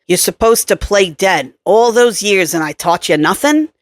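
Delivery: nasal New York accent, lightly voiced; a hint of a nasal New Yorker. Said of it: "said the nasal voice with the New York accent".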